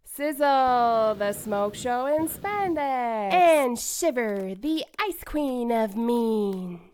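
slow, showy hero-intro voice; villain announcement. Acted. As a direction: hype up each name slowly. Announcing the twins' stage names.

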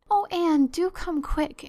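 high, loud frightened plea; nervous pleading. Acted. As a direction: beg her to hurry, scared. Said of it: "implored Diana nervously".

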